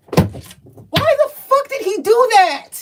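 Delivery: high, drawn-out incredulous outburst; exasperated disbelief. Real, not acted. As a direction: cry out in disbelief, slowly. Astonished at the man's fatal words.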